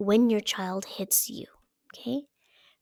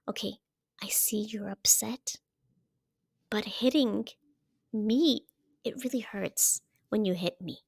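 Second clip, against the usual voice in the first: calm; 4 dB quieter than usual. Shown as a demonstration. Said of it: "So calmly, you wanna say".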